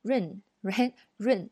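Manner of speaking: 润 said with no T at all; 润, T fully swallowed; T dropped. Shown as a demonstration. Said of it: "如果完全省略掉的话".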